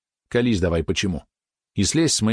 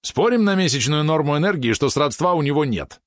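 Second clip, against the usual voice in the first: high-pitched, excited wager; eager challenge; 7 semitones higher than usual. A narrator's reading. Excited companion offers a bet on the brother's gift, eager. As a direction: throw down the bet with relish. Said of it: "азартно предложил Валерон от возбуждения".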